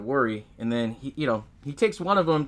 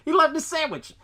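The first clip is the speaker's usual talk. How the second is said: high, laughing repeat of the outrage; laughing disbelief; 14 semitones higher than usual. Real, not acted. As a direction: laugh it out, still amazed.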